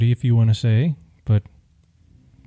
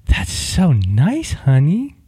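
slow, sugary and slightly higher; sweet feminine reply; 4 semitones higher, much slower than usual. Shown as a demonstration. Husband coaching wife's voice, sweet and drawn out. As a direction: coo it sweetly like a loving wife. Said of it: "you say".

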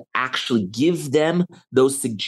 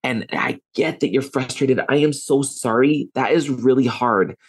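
calm validating. Shown as a demonstration. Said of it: "and say".

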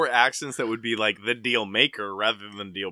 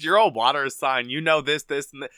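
mock gushing astrology fan; 3 semitones higher, 5 dB louder than usual. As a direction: gush over star signs like a starstruck fan. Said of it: "and you're like".

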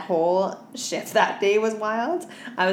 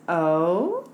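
slow, high, drawn-out leer; creepy customer; 5 semitones higher, 5 dB louder, much slower than usual. Retold or imitated. Dancer quoting a customer's leering line, slow and high. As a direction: stretch out waking up, sleazy and high. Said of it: "he goes".

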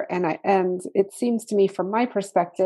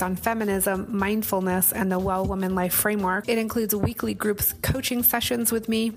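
ad read. Acted. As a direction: read it like a podcast promo. Ad read for academy.

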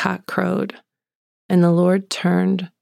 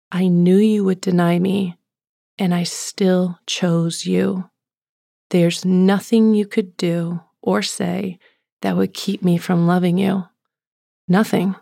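slow, deliberate words of love; loving assurance. Retold or imitated. Jesus assuring Peter who denied him, loving. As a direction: give each phrase weight, slowly and sincerely.

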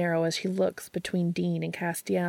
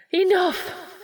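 high, loud furious shout; yell; 13 semitones higher, 6 dB louder than usual. A narrator's reading. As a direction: silence them all at once. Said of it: "Rowena yells".

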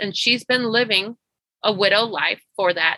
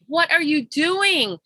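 slow, higher-pitched plea, overcome; emotional prayer; 4 semitones higher than usual. Retold or imitated. Coach praying over her client's news, slow and moved. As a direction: marvel aloud to God, drawing the words out. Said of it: "I just started crying".

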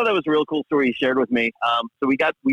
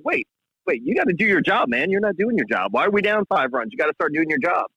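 put-on higher-pitched kid pleading with the coach; imitating a young kid; 3 semitones higher than usual. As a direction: play the eager young fan nagging the coach, pitched up. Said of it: "did that kid start yelling".

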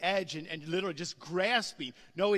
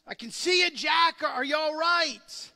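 calling down; 7 semitones higher, 8 dB louder than usual. Retold or imitated. God calling down to Jack.

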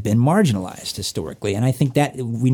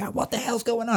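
mock bewildered gasp; 10 semitones higher, 7 dB quieter than usual. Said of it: "and you go like".

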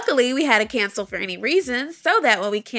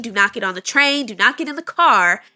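emphatic warning; 5 dB louder than usual. Real, not acted. Stern insurance warning.

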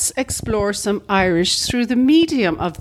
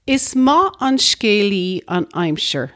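Irish language. Shown as a demonstration.

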